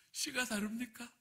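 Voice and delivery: high-pitched, mildly challenging question; slightly defiant. Retold or imitated. Pastor retelling his prayer to God, slightly defiant. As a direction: talk back to God a little. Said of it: "약간 대들면서 기도했는데".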